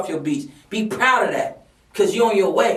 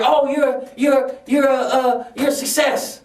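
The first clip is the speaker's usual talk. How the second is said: raised, eager fawning voice, stammering praise; mock admiring gush; 3 semitones higher, slower than usual. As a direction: gush over them like a starstruck fan. Mimics people praising a doctor.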